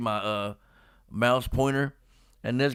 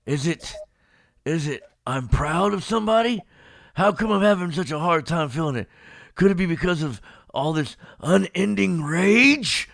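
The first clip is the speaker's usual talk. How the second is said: Team Four Star Vegeta; 3 semitones higher, 4 dB louder than usual. Retold or imitated. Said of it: "kinda like in the Team Four Star".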